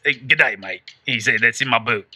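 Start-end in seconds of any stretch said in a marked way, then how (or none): 0.3-0.8 low, soft Aussie greeting; put-on Australian accent. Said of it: "do it in your Australian accent". 1.4-2.1 low, soft Aussie impression; put-on Australian accent. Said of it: "do it in your Australian accent".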